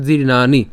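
জীর্ণানি with long "naa" and short "ni"; teacher carefully modelling জীর্ণানি; alternative pronunciation demo. Shown as a demonstration. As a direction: end জীর্ণানি on "ni", dropping any "yo". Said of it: "উচ্চারণ করতে পারি".

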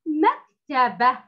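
drawn-out مكتبة, rising at the end; slow model reading. Shown as a demonstration. Teacher reads the second word to the pupil, slow. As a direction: read مكتبة slowly. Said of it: "كلمة".

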